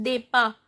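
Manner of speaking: "depa" ending on an open A; silent T. Shown as a demonstration. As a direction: stop "depa" on the vowel, no T. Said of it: "So T is not pronounced".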